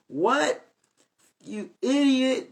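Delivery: mock insult, drawn out and contemptuous; scornful retort. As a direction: sneer it down at him with pride. Acted prideful retort to a brother.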